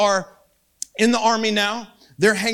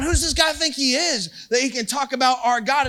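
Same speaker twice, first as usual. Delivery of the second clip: higher-pitched indignant challenge; righteous anger; 5 semitones higher than usual. Retold or imitated. David asking around about the giant, righteously angry. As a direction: act out an affronted, angry question. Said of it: "David gets righteously angry".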